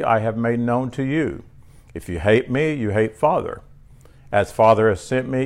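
reading scripture from the pulpit. Acted. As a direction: proclaim each verse to the church. Preacher reads Jesus' sayings.

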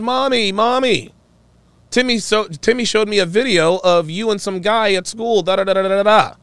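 playing the son tattling to mom; child voice. Son tattling to his mother, high childish voice. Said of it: "When her son comes home and says".

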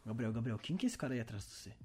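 creepy whisper. Pretend. Creepy question about man behind.

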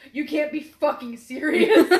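loud mock outrage through laughter; all-caps disbelief. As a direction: punch it out like an all-caps text. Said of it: "in all caps".

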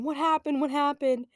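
imitating worried parents; alarmed parents.

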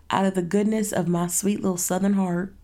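lightly put-on Southern accent. Offering friends food for their help, mock-sweet Southern accent. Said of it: "really bad habit of mimicking Southern accents".

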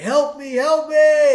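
high mock cry for help; drowning man calling for help. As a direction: plead as you go under. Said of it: "He's like".

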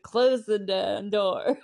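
lightly voiced cranky old man; rough grouchy old man. Vlogger repeating the grumpy old painter's line, slow and gruff. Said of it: "It just cracked me up".

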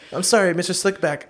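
lightly voiced nervous straight man; apologetic underling. Acting out Boondocks dialogue.

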